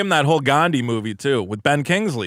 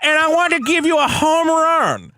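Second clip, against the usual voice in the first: put-on Indian call-center accent; 12 semitones higher than usual. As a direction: shout a scam pitch in accent. Mimicking Indian telemarketer.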